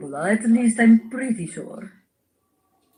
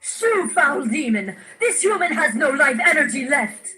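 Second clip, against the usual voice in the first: mock exorcism; 7 semitones higher than usual. Banishing a demon.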